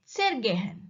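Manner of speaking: "zergehen" with a quick ZER, weight on GEHEN; "zergehen" stressed on its second syllable. Shown as a demonstration. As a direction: pass quickly over "zer" and land on "gehen". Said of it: "stress is on the verb gehen".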